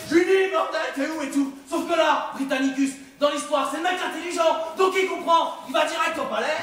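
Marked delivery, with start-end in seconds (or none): 0.1-1.5 mock panicked call. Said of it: "il commence à flipper".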